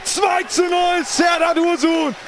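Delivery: goal call. Real, not acted.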